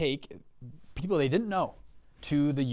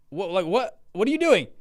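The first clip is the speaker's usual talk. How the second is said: imitated alarm, rising high and louder; incredulous dad; 4 semitones higher, 4 dB louder than usual. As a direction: demand an explanation as a stunned dad. Dad reacts to costly purchase.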